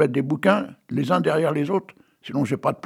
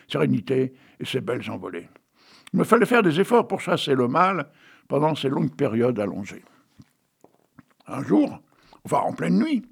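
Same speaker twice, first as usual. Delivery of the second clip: reading his own tale aloud with flourish; lightly dramatic storyteller reading; story reading. Acted. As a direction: read it like a whimsical fable. Reads his own absurd tale.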